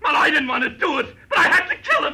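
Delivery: high, loud, half-laughing pleading; cracking under the gun; cornered killer breaks down; desperate plea. Acted.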